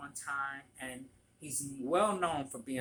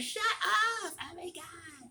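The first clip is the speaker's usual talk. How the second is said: put-on Valley girl voice, high and drawn out. Retelling a celebrity's reaction to an impression: Gabourey Sidibe as a Valley girl. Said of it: "She talks like a white Valley girl".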